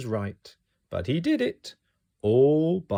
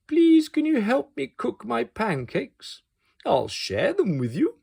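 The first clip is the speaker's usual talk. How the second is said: higher, gentle friendly request; kind offer; 11 semitones higher than usual. Acted. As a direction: offer kindly, hoping. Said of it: "he said kindly".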